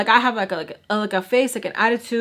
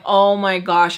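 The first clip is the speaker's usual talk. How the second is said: a louder, sharper oh my gosh; alarmed exclamation; 6 dB louder, slower than usual. Retold or imitated. Seeing the broken vase downstairs, a loud alarmed gasp. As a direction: blurt it out in alarm.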